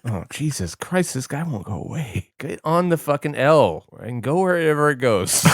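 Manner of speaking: loud Brooklyn guy voice; lightly voiced New York wiseguy; Brooklyn accent. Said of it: "he's back".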